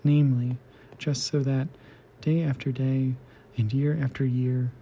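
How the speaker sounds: measured poem reading with deliberate pauses; poetry reading. Acted. Host reading translated poetry to listeners, measured recital. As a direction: read it out phrase by phrase, evenly. Reads translated poems aloud.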